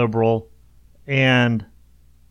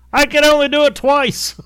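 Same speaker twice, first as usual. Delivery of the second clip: high mock protest; 14 semitones higher, 4 dB louder than usual. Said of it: "And you'd be like".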